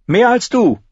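curt retort. A narrator's reading. Arya answers Heiße Pastete, curt. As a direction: toss it off. Arya's character voice.

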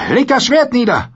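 high, loud shouted order; shouting demand. Acted. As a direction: bark it down at the beaten man. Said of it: "und schrie". (laut geschrien)

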